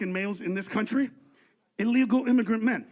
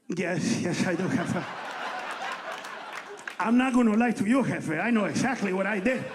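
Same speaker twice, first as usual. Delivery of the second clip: meek confessing driver; 2 semitones lower than usual. Retold or imitated. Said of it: "look right at him and go".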